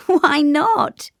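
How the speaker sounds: high, loud amused question; light chuckle into a high question; chuckling. A narrator's reading. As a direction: chuckle as you ask it. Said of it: "she chuckled".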